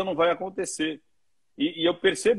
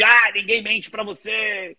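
teasing disbelief; 5 semitones higher than usual. Retold or imitated. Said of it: "As pessoas falam assim".

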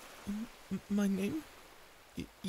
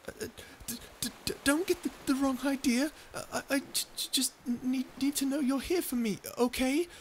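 fluster through it; flustered stammer; 3 semitones higher than usual. Acted. Embarrassed after holding hands.

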